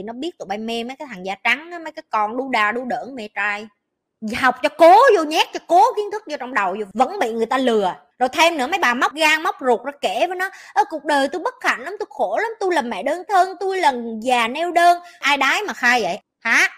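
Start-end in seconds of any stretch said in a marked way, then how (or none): 4.4-7.9 loud, raised-pitch scolding; fed-up telling-off; angry scolding. Real, not acted. Scolding women for being conned. 10.7-15.0 higher, mock-pitiful sob story; exaggerated woe-is-me whine; mock lament. Mimics women pouring out their woes.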